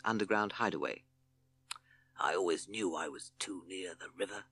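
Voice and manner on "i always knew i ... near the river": hissed. Acted. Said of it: "hissed Sid".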